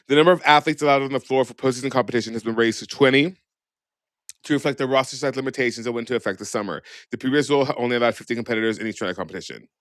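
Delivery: fast rule read-out. Real, not acted. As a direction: rattle through the rule text. Reads the rule text aloud.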